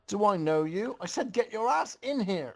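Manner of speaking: a high, scolding grandma voice; a bossy grandma ordering them inside; loud grandma. Acted. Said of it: "Rainbow's grandma responded loudly".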